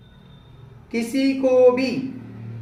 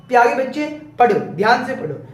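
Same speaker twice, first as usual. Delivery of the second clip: gentle request; faster than usual. Shown as a demonstration. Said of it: "दोनों के tone में different".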